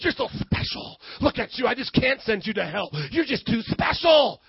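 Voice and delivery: soft, hammed-up fawning; mock doting. Preacher voices God as we imagine him, mock doting. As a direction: pretend to dote on someone too precious.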